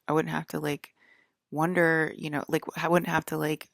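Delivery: mad rant. Retold or imitated. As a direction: vent at him half in earnest. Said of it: "I just got mad at him".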